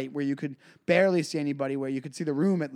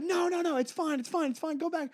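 mock pleading brush-off; 12 semitones higher than usual. Shooing the host away.

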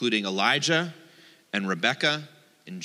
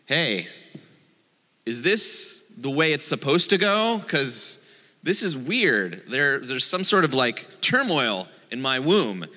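Rebecca asking around. Retold or imitated. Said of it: "Rebecca ask around to other women".

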